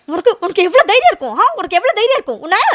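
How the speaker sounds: high indignant demand; outraged. Acted. Aara to Aravind, outraged demand. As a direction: demand how he dared. Angry confrontation.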